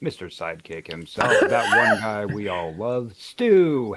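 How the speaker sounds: slow, drawn-out radio host read. Acted. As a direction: announce the scores like a DJ. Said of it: "use Mike's radio voice to do the scores".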